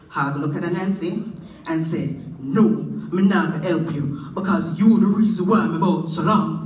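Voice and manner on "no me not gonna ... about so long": a hint of grumbling Hog. Hog refuses Anansi.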